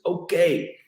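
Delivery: a pushy photo organiser calling out; American organiser. Retold or imitated.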